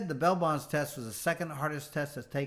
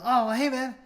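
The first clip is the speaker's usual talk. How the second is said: excited greeting; 9 semitones higher, 7 dB louder than usual. Retold or imitated. Customer voiced greeting.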